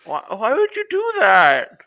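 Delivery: high, loud, hurt protest; shrill outraged cry. Acted. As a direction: yelp it after being punched. Punched cultist cries out.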